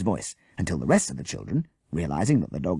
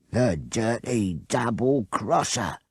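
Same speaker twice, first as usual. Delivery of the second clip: snarl; 4 semitones higher, slower than usual. Acted. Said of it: "Bert snarled".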